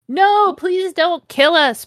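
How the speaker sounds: high, drawn-out mock plea; mock pleading. Vampire begs the villain to spare everyone, mock pleading. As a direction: beg in a hammed-up high voice. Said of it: "pleaded Vampire".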